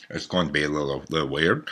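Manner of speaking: talking with a numb tongue; words thick from a numb mouth. Real, not acted. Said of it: "now I'm gonna talk like I have a lip".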